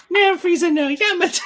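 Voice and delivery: very high squealed joke voice; mock anime plea. Co-host topping the senpai joke, high mock anime squeal. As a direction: squeal it in a silly high voice, near laughter.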